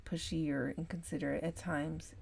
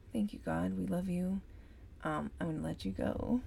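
customer service voice; 3 semitones higher than usual. Real, not acted. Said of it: "I have my, my customer service voice on still".

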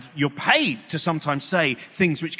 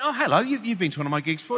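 chuckling hello, then quick; amused, hurried reply; laughing reply; 4 semitones higher, faster than usual. Retold or imitated. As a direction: laugh through the greeting. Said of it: "I went".

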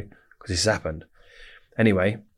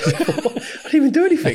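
laughing; 4 dB louder than usual. Real, not acted. Laughing at the absurdity.

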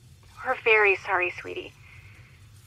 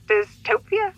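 high, loud questioning guess; 11 semitones higher, 5 dB louder, slower than usual. Acted. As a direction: call out the guess, unsure. Second parent calls out a guess.

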